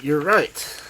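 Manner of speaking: loud insistent repeat; excited cry. A narrator's reading. Old man repeating to Loveday, loud and insistent. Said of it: "cried Mister Greaves".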